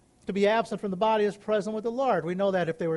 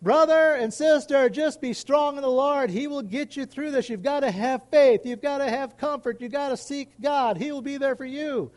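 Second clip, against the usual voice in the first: preacher encouraging; 4 semitones higher than usual. Retold or imitated. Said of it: "I speak out to everybody else saying".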